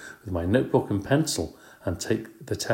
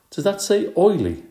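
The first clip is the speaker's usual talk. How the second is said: high, loud doubtful question; puzzled question; 12 semitones higher, 5 dB louder than usual. Acted. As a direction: ask in disbelief.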